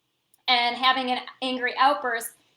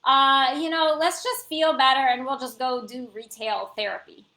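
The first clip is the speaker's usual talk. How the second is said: breezy therapy friend; 4 dB louder than usual. Retold or imitated. Imitating the retail therapy friend suggesting shopping, breezy and upbeat. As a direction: lightly play the friend who pushes shopping. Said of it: "who's like".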